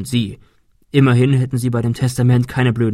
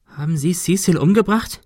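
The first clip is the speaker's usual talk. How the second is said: bitterly serious; 6 semitones higher than usual. Acted. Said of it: "Shirley klang bitter ernst".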